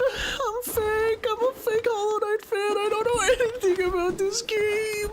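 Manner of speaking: high-pitched, drawn-out fake crying; melodramatic, squealing mock despair; mock wailing. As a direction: wail it out like a hammed-up sob. Mock sobbing about being bad at game.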